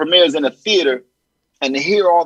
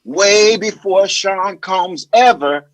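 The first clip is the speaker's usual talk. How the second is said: lightly voiced, slow actor impression; Terrence Howard; slower than usual. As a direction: draw it out, savoring your own story. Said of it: "impressions; Terrence Howard".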